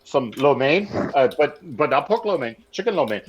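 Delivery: rushed, stammering order over the phone; Scotty Storm ordering Chinese food on the phone, fast and stammering; incoherent food order. Retold or imitated. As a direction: gabble the order fast, tripping over words. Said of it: "he talks about like".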